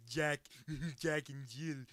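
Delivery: put-on a sickly old storyteller reading a fairy tale, cackling; super old Vincent Price. Impression of old Vincent Price reading fairy tales to his creation. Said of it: "this is my impression of super old Vincent Price".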